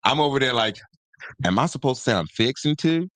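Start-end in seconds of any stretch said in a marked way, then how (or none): 1.4-3.1 mildly put-on country accent, higher pitch. Unsure about talking like country people, higher mock country accent. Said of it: "Like country people?".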